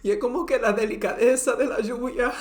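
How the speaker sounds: loud and high, swept up in wonder; marvelling. Real, not acted. Vlogger marvelling aloud at the gentle rain. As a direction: gush over the rain's gentleness.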